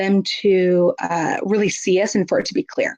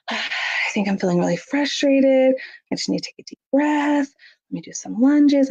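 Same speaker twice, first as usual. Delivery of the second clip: modeling self-talk; 5 semitones higher than usual. Shown as a demonstration. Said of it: "and comment, like".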